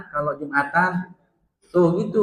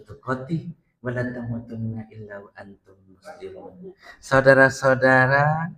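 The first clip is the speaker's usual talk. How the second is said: low droning preacher; 5 semitones lower than usual. Retold or imitated. Imitating the Friday preacher's low lulling sermon. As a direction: drone like a sleepy imam. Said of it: "nadanya tuh rendah".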